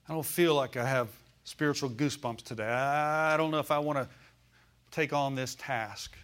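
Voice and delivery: dragged-out, half-hearted reluctance; mock unworthiness. Preacher voicing doubts before prayer, mock reluctant. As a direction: play a believer balking at the task. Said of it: "a sense of unworthiness".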